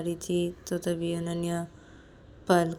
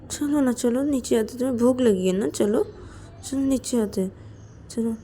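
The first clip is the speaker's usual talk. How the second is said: coaxing plea; 5 semitones higher than usual. Acted. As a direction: beg a crying friend to come along. Coaxing crying friend, apologising. (मनुहार भरी, ऊँची आवाज़ में मिन्नत)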